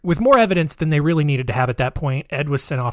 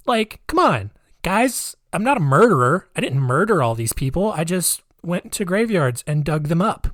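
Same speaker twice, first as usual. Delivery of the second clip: mock Ed; 3 semitones higher than usual. Voicing Ed defending himself.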